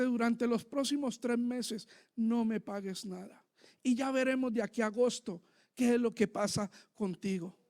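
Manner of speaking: low, quiet, gently retold promise; soft-spoken reassurance, pitched well under the preaching; retold kind landlord. Landlord freeing a tenant from the rent, quietly reassuring. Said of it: "viene este hombre y dice".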